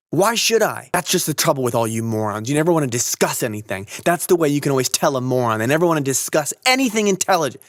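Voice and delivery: loud high jeering rant; taunting shout. A narrator's reading. Holden jeering at Stradlater about morons, taunting shout.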